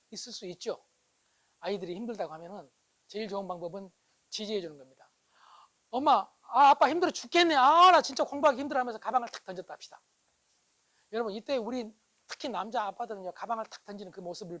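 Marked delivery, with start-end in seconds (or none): 5.9-8.8 loud, high acted grumbling; complaining child. Child home from studying tells parents it's too hard, loud complaint. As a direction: complain loudly to mum and dad, pitch raised.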